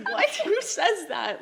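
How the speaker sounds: loud, high exasperated question; hammed-up indignant outburst; retold irritation. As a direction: imitate an incredulous fiancé, half laughing. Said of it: "Like, irritated now".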